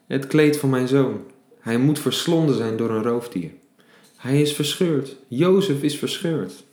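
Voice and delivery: high, loud grieving cry, slowing on the last line; Jacob crying out. Acted. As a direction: wail it like a father seeing his son's bloody coat. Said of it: "riep uit". (luide, rouwende uitroep)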